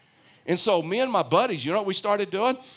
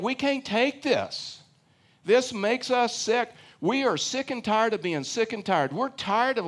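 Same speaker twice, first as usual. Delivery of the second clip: higher-pitched, mock whiny grievance; fed-up complaining; 5 semitones higher than usual. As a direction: play the worn-out complainers, pitched up. Voices the complaining Israelites' words.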